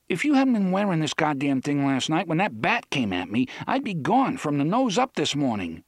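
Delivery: urgent Susanna. Acted. Susanna urges Eddie.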